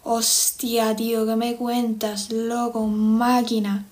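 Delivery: slow, imitated Castilian Spanish; Spain accent. Shown as a demonstration. Showing the chat her Spain accent. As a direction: drawl it out like a Spaniard. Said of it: "Vamos a hablar con acento español".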